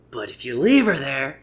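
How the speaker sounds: slow, drawn-out "But if you leave her there," then stop; slow trailing setup. Retold or imitated. Comedian leaves the punchline unsaid for the audience, slow and hanging. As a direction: let the line hang unfinished. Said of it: "He just says".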